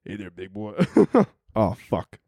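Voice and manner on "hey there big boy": hushed, teasing come-on whisper; mock seductive whisper. Coworker teasing him like his wife would, mock seductive whisper. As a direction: coo it into his ear as a joke. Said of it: "You want me to whisper in your ear?".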